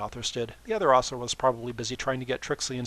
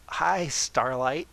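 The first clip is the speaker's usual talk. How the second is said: exclaimed; much slower than usual. Acted. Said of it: "Sunburst exclaimed".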